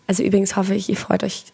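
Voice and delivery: hoarse, husky voice; raspy from a sore throat; smoker's rasp. Real, not acted. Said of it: "du hast eine richtig heftige Raucherstimme".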